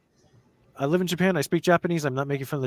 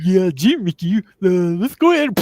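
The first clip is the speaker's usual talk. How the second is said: high, loud bad Donald Duck voice; badly done Donald Duck; 8 semitones higher, 9 dB louder than usual. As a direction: squawk it like a cartoon duck. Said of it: "my bad impression of, uh, Donald".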